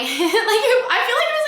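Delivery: high, loud words through a laugh. Real, not acted. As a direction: laugh as you speak. Laughs while recalling the relationship.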